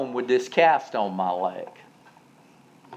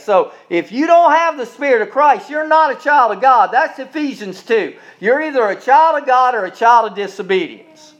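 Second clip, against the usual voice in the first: raised, insistent pulpit voice; forceful preaching; 8 semitones higher, 7 dB louder than usual. Real, not acted. Preacher explaining who is a child of God, forceful preaching. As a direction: press the scripture home, pitched up.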